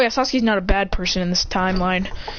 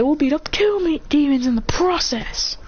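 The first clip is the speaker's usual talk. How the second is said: raised-pitch acted threat; mock threat; 6 semitones higher than usual. Classmates rushing at the demons, threatening. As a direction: threaten them, pitched up then slowing.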